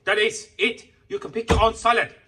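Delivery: high, loud sneering imitation of a rude counter guy; mocking the shop worker. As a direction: mimic the shop worker snapping back, hammed-up. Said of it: "It's like".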